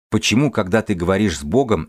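ordinary talk

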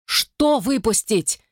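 high, slow questioning call; Val calling to the woman; mild shout. Acted. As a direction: call out across the deck. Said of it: "крикнул Вэл".

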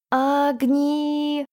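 простонать с болью; moaning. A narrator's reading. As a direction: groan the name out in pain. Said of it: "простонал Саламандр на ухо".

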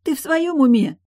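sister's falsetto outrage at her brother. Acted. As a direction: squeak it out in outrage. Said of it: "Голос Тильды напоминал фальцет".

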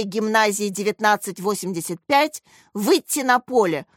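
measured formal announcement; loud announcement. A narrator's reading. PE teacher calling teams onto the court, announcing. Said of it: "громко произнёс Пётр Анатольевич".

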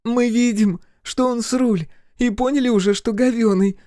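very high, loud female retort; exclaiming. A narrator's reading. Olli answering the captive, exclaiming. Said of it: "воскликнула в ответ Олли".

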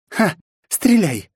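loud high cry; defiant shout. Acted. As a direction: dare him to shoot, shouting. (Настя кричит под дулом: вызывающий крик)

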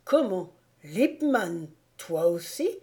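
can't believe it's him too; shocked disbelief. A narrator's reading.

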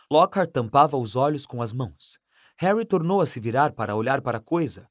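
ordinary delivery, nothing marked

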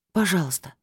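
pleading without much hope; hopeless plea. A narrator's reading. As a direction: ask knowing the answer is no. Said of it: "вновь попросила я без особой надежды". (просьба без надежды)

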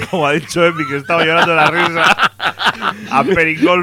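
loud, high, laughing through the words. Real, not acted. Co-host teases Emi over the botched band name, laughing loudly. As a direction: crack up while repeating the silly name.

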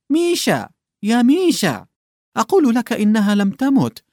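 put-on old clerk insisting to a weeping colleague; urgent reassurance. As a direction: call him back to his senses. Urging the sobbing man.

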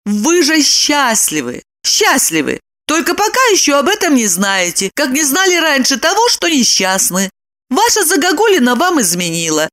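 high, cheerful woman's voice; smiling. A narrator's reading. Lipochka congratulates Roman on his luck, smiling. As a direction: advise him gleefully, with a smile. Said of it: "с улыбкой продолжила Липочка".

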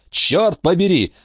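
«Чёрт побери!» медленнее и заметно выше, с нажимом на «Чёрт»; растяни «Чёрт побери!» от досады; повторное восклицание. A narrator's reading. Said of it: "воскликнул Крах". (медленное высокое «Чёрт побери!»)

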